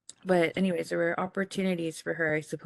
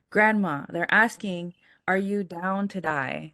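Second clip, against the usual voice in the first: raised voice, slow, spelling it out for a grandma hard of hearing; calling loudly to deaf grandma; 4 dB louder, slower than usual. Retold or imitated. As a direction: call it out so a half-deaf grandma can hear. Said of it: "she was also hard of hearing".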